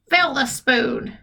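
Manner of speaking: put-on slow, bossy old woman; slow command. Grandma orders George to fill the spoon, slow and bossy. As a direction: order it slowly.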